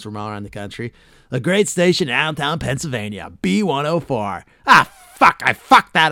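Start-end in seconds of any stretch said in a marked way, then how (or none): 1.3-4.4 loud radio-host station plug; Casey Kasem shout-out. Retold or imitated. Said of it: "he'd always mention". 4.7-6.1 much higher, much louder mock blown-take curse; hammed-up studio flub rage; blooper outburst. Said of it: "Did you ever hear Casey Kasem fucking it up?".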